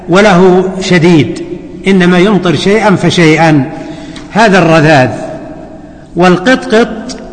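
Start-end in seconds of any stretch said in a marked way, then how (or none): 6.2-7.2 القطقط slowly as "qitqit", i under each qaf; careful vowelling. Shown as a demonstration. Teacher vowelling a hadith word for students, careful slow القطقط as "qitqit". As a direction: say القطقط with short i after qaf, unvowelled ta. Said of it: "بكسر القاف وإسكان الطاء".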